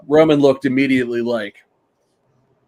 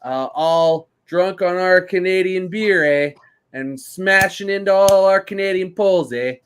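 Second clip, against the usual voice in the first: mock Canadian; 4 semitones higher than usual. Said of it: "Canada was probably like".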